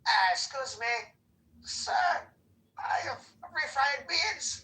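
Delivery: high, strained put-on Hispanic accent; mock Hispanic accent. Caller trying a Hispanic accent on request, hammed-up Hispanic voice. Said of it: "can you do a Hispanic a-, accent".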